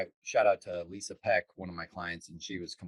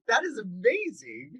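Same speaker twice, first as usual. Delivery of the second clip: mock amazed reaction; 13 semitones higher, slower than usual. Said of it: "I was like".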